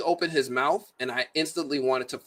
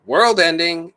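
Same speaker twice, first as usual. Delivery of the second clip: louder, higher mock alarm; mock scream; 4 semitones higher, 8 dB louder, slower than usual. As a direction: blurt it out like a half-scream warning. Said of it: "the whole movie is basically screaming".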